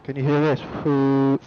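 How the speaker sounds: tinny phone mic, no bass; thin voice through a cheap headset mic; sounds like a phone. Real, not acted. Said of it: "you sound like you're on a phone".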